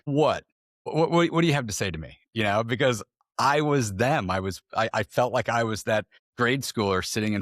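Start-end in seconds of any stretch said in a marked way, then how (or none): 0.0-2.2 mildly raised pitch, mock confrontation; hostile parent. Parent called into the principal's office, mildly hostile. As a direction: challenge them, with a touch of hostility. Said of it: "come in as a hostile parent".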